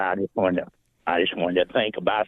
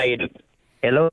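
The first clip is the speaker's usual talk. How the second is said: call dropping out; 5 semitones higher, faster than usual. Real, not acted. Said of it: "you're kinda breaking up".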